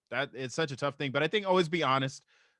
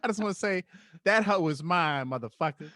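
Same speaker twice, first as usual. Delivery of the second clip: higher smooth pimp swagger; 5 semitones higher than usual. Acted. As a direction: slick threatening pimp. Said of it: "your fucking pimp voice".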